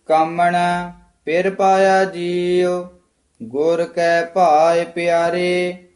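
scripture recitation. Shown as a demonstration. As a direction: recite steadily, holding the line endings. (ਠਹਿਰਾਅ ਵਾਲਾ ਗੁਰਬਾਣੀ ਪਾਠ)

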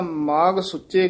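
ਮਾਗ ਸੁੱਚੇ joined without a pause; no halt between ਮਾਗ and ਸੁੱਚੇ; wrongly run together. Shown as a demonstration. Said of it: "ਇਹ ਨਾ ਤਾਂ".

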